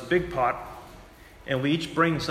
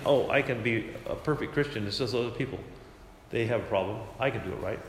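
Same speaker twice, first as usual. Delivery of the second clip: self-righteous voice; 4 semitones lower, 4 dB quieter than usual. Retold or imitated. Mocking a self-righteous Christian.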